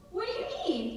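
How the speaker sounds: high-pitched mock-innocent mom; put-on calm. Mom questions her suspicious son, exaggeratedly calm. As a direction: imitate a mother keeping deliberately calm. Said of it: "so I'm being really calm".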